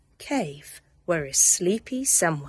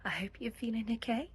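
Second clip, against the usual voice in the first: whisper; 2 semitones higher, 8 dB quieter, much faster than usual. Real, not acted. Whispered bedtime story greeting.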